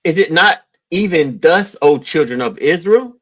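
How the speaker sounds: slow, measured Bible reading; scripture reading. Real, not acted. Man reading Amos aloud to his co-host, solemn scripture reading. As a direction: read the verse out deliberately.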